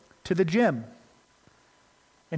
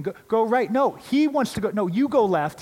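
put-on higher and louder, kids shouting over each other; competing yells; 6 semitones higher, 5 dB louder than usual. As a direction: call out directions in a crowded gym, mock chaos. Competing kids yelling directions.

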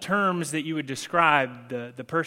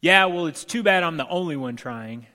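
retold scream; 3 semitones higher, 6 dB louder than usual. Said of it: "I scream back at him".

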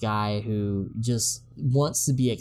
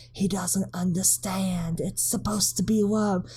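put-on high hushed old lady whisper; 7 semitones higher than usual. Old lady whispering to the mayor, hushed. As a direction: lean in and whisper it. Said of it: "whispering to the mayor".

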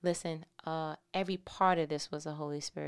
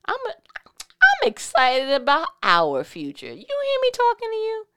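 much higher and louder; excited shout; 14 dB louder than usual. Real, not acted. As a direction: shout it out with joy.

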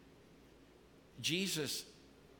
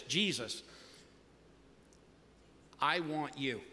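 sample prayer; 2 semitones lower than usual. Shown as a demonstration. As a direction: pray it gently as a model to copy. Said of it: "It sounds just like this".

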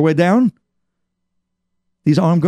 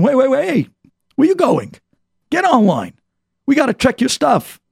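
a guard calling him back, pitched higher; stern guard; 9 semitones higher than usual. Retold or imitated. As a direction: halt him at the door, clearly higher. Guard stops the senior manager.

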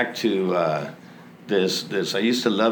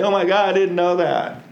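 a hint of an alarmed gasp, higher and louder; mock freak-out; 8 semitones higher, 4 dB louder than usual. Hypothetical alcoholic finding the alcohol, mock alarm. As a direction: play the shocked alcoholic lightly.

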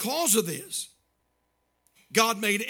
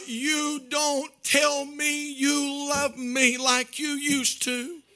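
quivering voice; 2 semitones higher, slower than usual. Retold or imitated. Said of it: "her voice begins to quiver".

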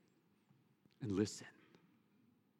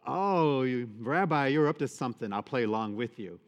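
a hint of the woman teasing Jesus, playful and knowing; 6 dB louder than usual. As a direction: tease him, you've caught him out. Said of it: "caught on to the Lord's scheme".

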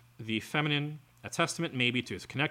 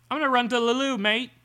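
high, loud hammed-up British "loo, mate"; mocking the man's put-on British affect; mock British accent; 12 semitones higher, 9 dB louder than usual. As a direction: ham up a posh English dodge. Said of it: "putting on an affect like that".

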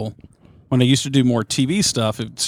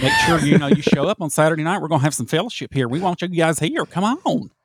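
higher and higher, a sing-song church youth minister; effeminate youth minister voice; 5 semitones higher than usual. Retold or imitated. Youth minister inviting the kids to fellowship, rising sing-song. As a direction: coax the kids to come like an eager youth minister. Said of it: "they always kinda talked like that".

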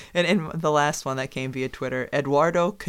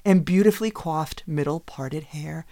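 dramatic reading. Pretend. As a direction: overplay the drama of the story. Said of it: "It would be something like this".

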